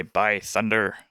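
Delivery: put-on pirate accent with a sounded R; pirate accent, R heard ending "thunder". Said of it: "He would also say".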